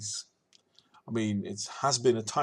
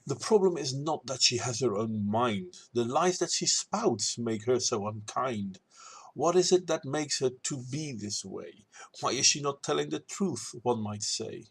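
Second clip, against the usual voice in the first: measured rhymed rebuttal in verse; verse recital. Acted. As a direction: recite it as a spoken poem reply.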